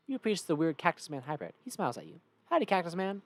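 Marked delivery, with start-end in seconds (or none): 2.5-3.2 Southern howdy, a bit high; cheery Southern greeting; Southern accent. Acted. Player greets the cactus man, Southern accent. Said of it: "Southern accent for all these guys".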